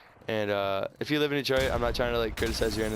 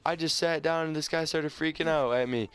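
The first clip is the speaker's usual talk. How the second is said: upset wife; 6 semitones higher than usual. Retold or imitated. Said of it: "They're like".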